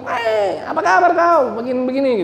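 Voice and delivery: high, loud Medan-style hello that sounds like a fight; loud Batak greeting. Retold or imitated. Preacher mimics a Batak visitor greeting the host, loud and high. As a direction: bellow a friendly greeting like picking a fight. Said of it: "Kayak orang mau berantem".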